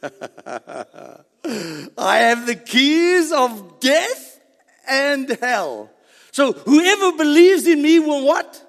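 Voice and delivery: loud, high-pitched preaching; triumphant proclamation. Acted. Preacher proclaims Christ's keys of death, triumphant proclamation. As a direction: declare it at full force, drawing out key words.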